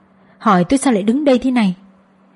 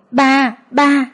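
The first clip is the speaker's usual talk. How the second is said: put-on toddler calling; 5 semitones higher than usual. Đứa bé gọi bà nội.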